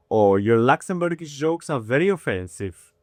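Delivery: imitated Italian accent, mildly offended; lightly put-on Italian accent. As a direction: do a complaining Italian guy. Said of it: "you also heard his Italian accent".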